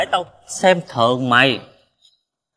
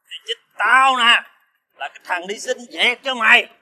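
put-on drunk; 3 semitones higher than usual. Drunk friend reminding his debtor of past favours, slurred reproach. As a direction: drag out the key words as a drunk accuser, pitch swinging high. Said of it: "mày xỉn rồi".

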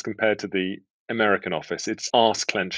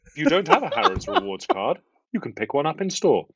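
Harrods tannoy voice; 6 semitones higher than usual. Shown as a demonstration. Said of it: "the voice of Harrods in the in-store PA system".

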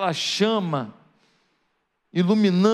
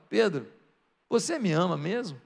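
gentle questioning; 4 semitones lower, 5 dB quieter than usual. Acted. Jesus asks Peter again.

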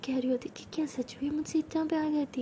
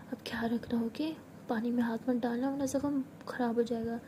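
tender caring; 4 dB quieter than usual. Acted. Tender goodbye, caring for wound.

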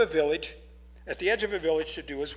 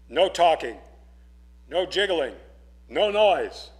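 louder stern commands; ordered; 7 dB louder than usual. Acted. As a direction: lay down the rules to the boy. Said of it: "he ordered Thomas".

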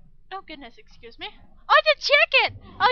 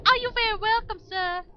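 1 polite reply; 6 semitones higher, 7 dB louder than usual. Retold or imitated. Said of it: "I say".

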